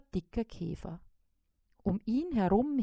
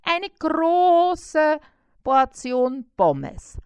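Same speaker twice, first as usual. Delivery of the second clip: greedy little fly; 5 semitones higher, 7 dB louder than usual. A narrator's reading. Fly dictating a huge food order, high eager voice. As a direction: rattle off the order with relish.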